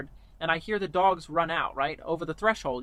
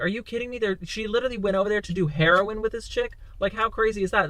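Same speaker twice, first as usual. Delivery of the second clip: freaked out; 3 semitones higher than usual. Retold or imitated. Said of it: "And I freaked out".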